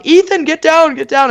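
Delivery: hiss-free hurry to get him down; yelling friend. Retold or imitated. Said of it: "another one's yelling".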